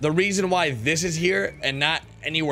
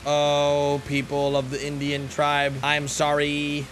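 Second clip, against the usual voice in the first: solemn formal apology; 3 semitones lower, slower than usual. Pretend. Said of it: "Why am I talking like this?".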